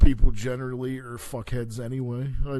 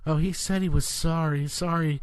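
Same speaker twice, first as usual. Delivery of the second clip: mock churchgoer; 4 semitones higher than usual. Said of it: "they try to do that fucking bullshit where they're like".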